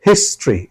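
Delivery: হিস্ট্রি with the stress on হিস্ট; stress on HIS. Shown as a demonstration. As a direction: hit হিস্ট in হিস্ট্রি, keep ট্রি short. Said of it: "হিস্টে stress দিলেন". (হিস্টে জোর দিয়ে হিস্ট্রি)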